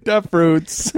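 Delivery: Da fruits in thick Chicago; Chicago accent. Pretend. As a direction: punch Da like a Chicago superfan. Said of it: "Chicago guys from the SNL skit".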